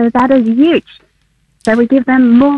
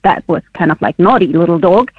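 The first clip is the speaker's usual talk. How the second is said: a hint of a firm scolding tone; 5 semitones lower than usual. Researcher demonstrating firm voice to a dog, lightly. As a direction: mildly scold a naughty little dog. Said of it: "very firm voice where you can say".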